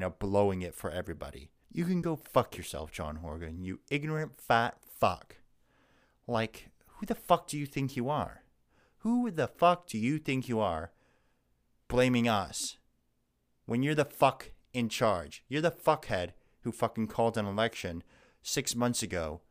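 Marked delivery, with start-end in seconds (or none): 1.7-5.4 angry rant. Real, not acted. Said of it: "you saw that fucking rage come out". 6.3-18.0 furious rant. Real, not acted. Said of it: "you saw that fucking rage come out".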